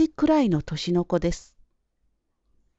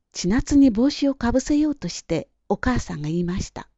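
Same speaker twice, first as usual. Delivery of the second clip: usual speaking voice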